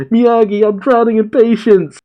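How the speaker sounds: overwhelmed doctor calling out; frantic shout. Retold or imitated. Chopper, swamped while bandaging, shouting to Miyagi. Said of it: "is just shouting".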